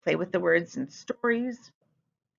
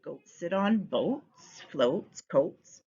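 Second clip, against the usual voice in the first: slow prompting list; much slower than usual. Shown as a demonstration. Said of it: "let the children come up with their own ideas".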